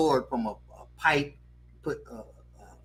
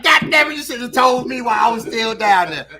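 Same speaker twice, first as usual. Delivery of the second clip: loud, high shouted outburst; comic angry yell, pitched up; angry father; 8 semitones higher, 9 dB louder than usual. Acted. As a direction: explode like an exasperated dad. Voices his father's angry outburst.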